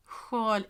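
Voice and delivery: "Sjal" as a Swedish word; Swedish pronunciation. Shown as a demonstration. Explaining her language slip, Swedish pronunciation of "Sjal". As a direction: say "Sjal" in Swedish, breathy sj-sound and long a. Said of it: "is in Swedish".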